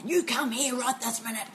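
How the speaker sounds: acted parental telling-off; imitated stern father. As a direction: order the child over, half amused. Imitates father scolding yelling son.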